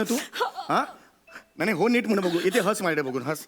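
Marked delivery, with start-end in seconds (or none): none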